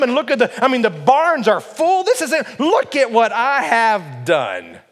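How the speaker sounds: proud, emphatic self-congratulation in the rich man's voice; boastful rich man. Acted. Voicing rich man boasting of success.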